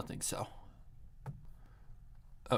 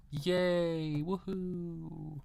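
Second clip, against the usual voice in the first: cheering; 8 semitones higher, 4 dB louder, much slower than usual. Real, not acted. Celebrates finding the file.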